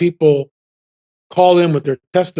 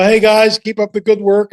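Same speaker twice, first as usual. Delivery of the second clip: higher, louder cheer to the group; acted passing call-out; 5 semitones higher, 3 dB louder than usual. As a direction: call out encouragement while gliding past. Calls to skiers while passing.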